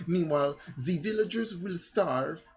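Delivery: put-on French stereotype accent. Woman picturing starving villagers, melodramatic French accent. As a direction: lament theatrically in a silly French accent. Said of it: "my voice just goes from French stereotype".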